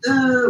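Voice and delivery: high mock groan of rejection; high-pitched put-out groan; rejected groan. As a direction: imitate a spurned girl's exasperated "uh". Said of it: "like, another rejection".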